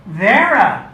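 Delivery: high, loud surprised cry of a name; exclaiming. Retold or imitated. Spotting Vera in the hallway, a surprised exclamation. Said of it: "she exclaimed".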